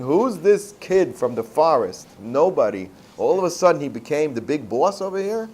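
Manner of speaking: mildly hammed-up indignation; indignant resentment. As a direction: complain like a slighted courtier. Resentful ministers complain about the newcomer.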